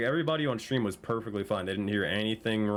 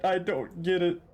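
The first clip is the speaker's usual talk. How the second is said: baffled; 9 semitones higher, slower than usual. Real, not acted. Repeats confusion, first take high.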